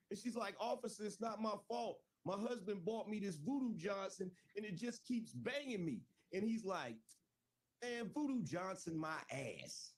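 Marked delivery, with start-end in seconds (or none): 0.6-6.0 pleading wife. Retold or imitated. 7.8-9.9 mocking cop. Cop punchline.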